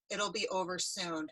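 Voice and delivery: soft, low retold comfort; softly reassuring, voice dropped; gentle reassurance. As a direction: quote a quiet, soothing word of support. Customer comforts the stressed waitress.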